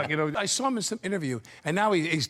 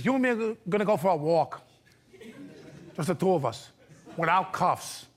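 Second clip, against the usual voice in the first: Pacino impression; 2 semitones higher than usual. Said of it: "he does it so high-pitched".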